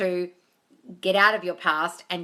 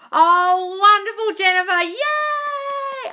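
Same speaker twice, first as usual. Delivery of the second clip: high, loud gushing praise; gushing cheer; 12 semitones higher, 7 dB louder, much slower than usual. Real, not acted. Cheering on Jennifer's news in a high, loud squeal. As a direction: squeal with delight for her.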